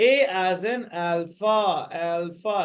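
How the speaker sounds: "alpha" said with L and fa kept separate; teacher's drill of "alpha"; careful pronunciation. Shown as a demonstration. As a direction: sound out "alpha" in two parts. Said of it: "separately pronounce both of this".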